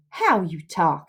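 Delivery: low, falling "how you talk"; scoffing disbelief. Acted. Huck scoffs at Tom's rope ladder, disbelieving.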